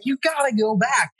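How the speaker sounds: high-pitched mock demand; retold insistence. Friend demanding a drive back for gear, retold insistence. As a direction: imitate a buddy insisting, voice way up.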